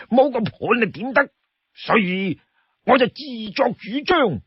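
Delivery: mock-pitying plea with swooping pitch; coaxing Li Kui. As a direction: draw out the loneliness, then perk up. Li Kui pleads pity for companion.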